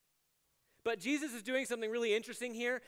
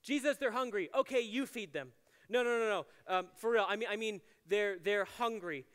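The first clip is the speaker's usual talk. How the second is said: sarcastic. Retold or imitated. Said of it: "They respond very sarcastically".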